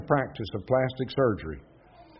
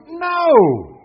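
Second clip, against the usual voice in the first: sharp, much higher and louder "No!"; retold yell; 13 semitones higher, 9 dB louder than usual. Radio caller rejecting the verse, yelling no. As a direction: bark it back like a stubborn caller. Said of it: "And he would yell".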